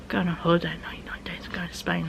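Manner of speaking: fast breathless whisper, imitating sister; retold whisper. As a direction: whisper it quickly like a secret.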